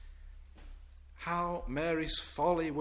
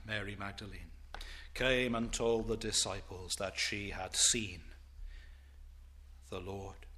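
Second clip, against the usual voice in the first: hushed whisper; 8 semitones lower, 8 dB quieter than usual. Acted. Preacher whispering that Mary had seen the Lord. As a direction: whisper it like a secret.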